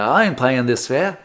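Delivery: badly faked Australian accent. Correcting the tram rider's voice, bad Australian accent. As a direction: attempt an Australian accent and miss. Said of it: "that's a bad Australian accent".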